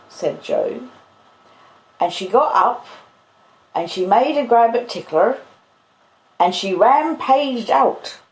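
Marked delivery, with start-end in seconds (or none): 2.0-8.2 lightly voiced blacksmith recounting a rampage; a hint of Joe's character voice; Joe's dialect voice. Joe recounting the rampage, acted.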